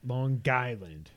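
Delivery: slow "Long Island" as "Lawn Guyland"; local Long Island pronunciation. Shown as a demonstration. Mocking how locals say "Long Island", as "Lawn Guyland". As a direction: stretch "Long Island" with a hard g before "Island". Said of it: "That's how they say it".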